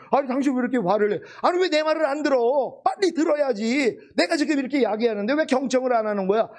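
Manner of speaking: a touch of put-on indignation; mild mock anger. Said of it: "화가 난단 말이에요".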